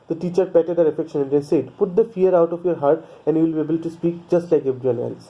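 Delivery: slow, careful read-aloud of the English text; measured storybook reading pace; slow story reading. A narrator's reading. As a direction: read each sentence out slowly for the class. Reads English story text slowly.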